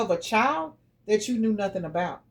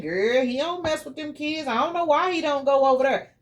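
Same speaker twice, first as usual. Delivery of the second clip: higher, lightly voiced girlfriend excusing him; mock gossip friend; 5 semitones higher than usual. Tarot reader mocking a careless friend, lightly mimicked. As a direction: imitate a friend shrugging it off.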